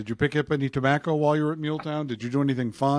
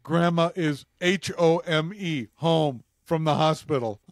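mock frustrated, spelling out slowly; slower than usual. Frustrated mom texting her son, spelling it out slowly. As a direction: slowly spell it out, a touch annoyed.

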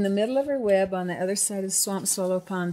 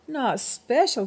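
slow, higher-pitched indignant echo; crying out in disbelief; 5 semitones higher, 4 dB louder, slower than usual. A narrator's reading. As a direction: question it as the hurt little cricket. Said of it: "cried the littlest cricket".

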